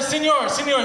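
put-on light Spanish-accented señor, señor; a hint of an insistent Mexican teacher; mock Mexican accent. Mexican man correcting his pupil, light Spanish accent. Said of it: "He's not".

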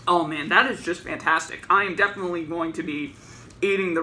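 muffled mouth partly covered; talking while chewing. Real, not acted. Seen 3: Holds wrapped sandwich, forearm over mouth, just after taking bites.

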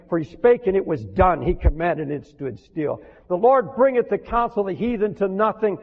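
ringing, solemn psalm read; scripture reading. Acted. Preacher reads Psalm thirty-three to the church, solemn and ringing. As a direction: proclaim the psalm line by line.

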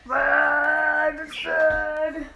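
high startled cry at the glare; excited exclaim. Real, not acted. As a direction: call out, dazzled by sunlight. Sun in her eyes mid spin.

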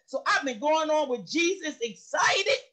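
crying out, voice breaking; real tearful, joyful cry; tearful outcry. Real, not acted. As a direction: let the tears and joy burst out. Testimony climax, emotion breaks through.

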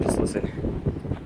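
drawn-out breathy whisper, very slow. Real, not acted. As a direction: stretch the whisper out slowly. Repeats hush, slower.

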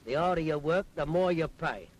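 loud, aggrieved complaint about tax; indignant grumble. Acted. Taxpayer complaining loudly to the Scotsman about tax. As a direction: protest hotly, like he's been robbed.

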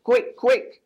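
urgent hen clucks; hurrying hen. A narrator's reading. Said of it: "clucked Hen".

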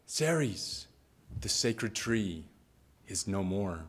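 softening into a sad near-hush; hushed grief. Acted. Dryads telling the goddess Ceres of the fallen tree, hushed and sad. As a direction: break the bad news gently, grieving. Dryads report tree's death.

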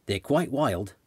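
light Australian accent, lightly voiced older man; a hint of an Aussie farmhand's drawl. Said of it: "in his Australian accent".

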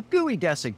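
geodesic said "gooey-DESS-ick"; mispronounced geodesic. Acted. Pete explaining triangle domes, geodesic mispronounced as gooey-dessic. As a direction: start geodesic with the word gooey. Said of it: "Pete's incorrect pronunciation of geodesic".

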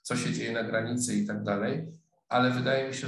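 usual speaking voice

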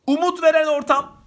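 veren hit loud and high; stress on veren. Shown as a demonstration. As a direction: punch veren, not ortam. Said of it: "Ortam demiyor bak".

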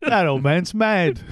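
Peter Mayhew imitation. Joking to cohosts, doing a slow, lifted mock old-man voice. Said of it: "That's my Peter Mayhew imitation".

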